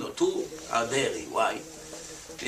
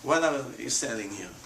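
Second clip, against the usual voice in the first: mock skeptic; 5 semitones lower than usual. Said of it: "you would say".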